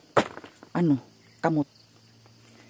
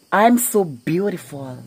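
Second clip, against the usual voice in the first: mock vain brag; 3 semitones higher, 3 dB louder, slower than usual.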